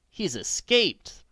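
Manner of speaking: high, slow cry of disappointment; bitter exclamation. A narrator's reading. Nancy finds the robber gone, crying out in dismay. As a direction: let the dismay ring out, high and drawn. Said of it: "Nancy exclaimed in bitter disappointment".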